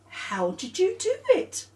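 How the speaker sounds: very high, odd character voice; Robert's voice. Acted. Robert asking Claire, squeaky and high. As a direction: ask in a squeaky friend voice. Robert asks about knee.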